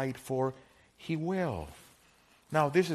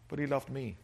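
soft sincere. Shown as a demonstration.

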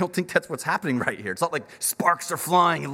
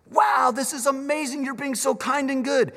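grateful wonder; 10 semitones higher than usual. Retold or imitated. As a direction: marvel at the kindness. Ruth thanking Boaz.

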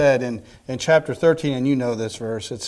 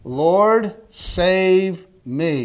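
loud, high plea to the Lord; Peter's urgent call, louder and higher; desperate cry for help; 5 semitones higher, 5 dB louder, much slower than usual. Acted. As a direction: cry out like a drowning man. Peter crying out from the sea.

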